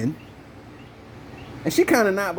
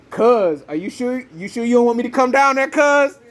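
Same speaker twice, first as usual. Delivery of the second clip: mock eager cousin; 6 semitones higher, 4 dB louder than usual. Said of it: "motherfuckers be like".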